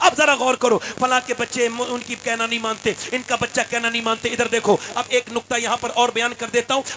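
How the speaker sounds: loud, fervent sermon delivery; fiery pulpit preacher rousing the faithful; preaching at full force. Acted. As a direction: preach it hard to the crowd. Cleric preaching to congregation.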